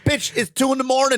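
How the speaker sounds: a hammed-up rant at the game girl; mock exasperated retort. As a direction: snap back at a nagging game girl. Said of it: "I go".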